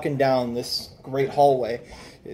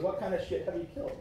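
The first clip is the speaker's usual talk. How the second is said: fast, higher guard voice; quick gruff guard; 5 semitones higher, 9 dB quieter, faster than usual. Acted. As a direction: snap the question like a surprised guard.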